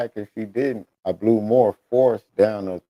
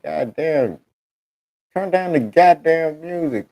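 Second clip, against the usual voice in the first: urgent order; 6 semitones higher, 3 dB louder than usual. Retold or imitated. Retelling his order in the emergency.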